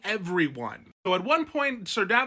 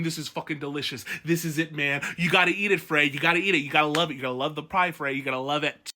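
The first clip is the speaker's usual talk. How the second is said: lower, savoring every word; gloating pie eater; 4 semitones lower, faster than usual. Retold or imitated. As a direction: relish each bite while gloating at the Freys. Manderley savoring pies at feast.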